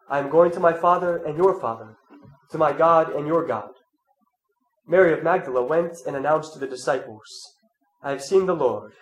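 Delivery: measured, solemn Gospel reading; scripture reading. Acted. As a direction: read the Gospel to the congregation. Reads the Gospel aloud.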